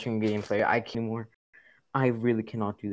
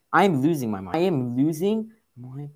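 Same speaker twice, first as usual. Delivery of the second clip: losing it; 4 semitones higher, 6 dB louder than usual. Real, not acted.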